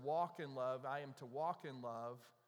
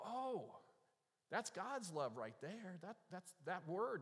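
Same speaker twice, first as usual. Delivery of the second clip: drawn-out, higher "Oh" of discovery; awed realization; 4 semitones higher, slower than usual. Acted. Preacher voicing Greeks discovering agape's purpose, awed realization. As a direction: act out slowly working it out, pitched up.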